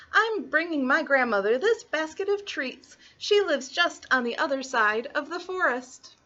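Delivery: put-on high, innocent child voice; little girl. Little Red telling the wolf her name, high girlish voice. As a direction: answer as a trusting little girl.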